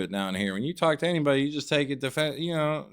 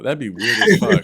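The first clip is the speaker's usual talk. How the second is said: mock high voice; 8 semitones higher, 9 dB louder than usual. Mocking high voice.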